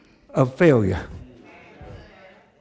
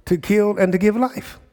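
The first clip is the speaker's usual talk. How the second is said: higher-pitched mock-indignant protest; upset, retold; 5 semitones higher than usual. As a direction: act out an upset king's complaint. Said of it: "So he's really upset".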